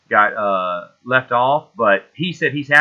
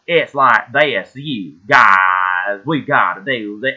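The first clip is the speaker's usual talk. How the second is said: slow, exaggerated mock Southern accent; bad Southern accent; 2 semitones lower, 3 dB louder, much slower than usual. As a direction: imitate a terrible Southern drawl, dragged out. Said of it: "she does the worst Southern accent".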